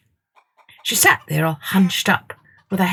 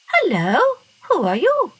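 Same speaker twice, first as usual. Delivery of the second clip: put-on higher child's voice; curious girl; 12 semitones higher than usual. A narrator's reading. Masha greeting the strange bird, high. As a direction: ask curiously as a little girl.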